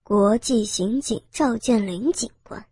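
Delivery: sneering gang boss with a chuckle; cold sneer. Acted. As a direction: gloat mockingly over the unmasked officer. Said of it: "头目冷笑着说道". (头目冷笑嘲讽)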